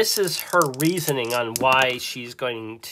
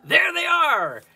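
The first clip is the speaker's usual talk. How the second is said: high, loud shouted cry; old woman's yell; 7 dB louder than usual. Acted. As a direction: call it out sharply across the square, high and loud. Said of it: "and yells".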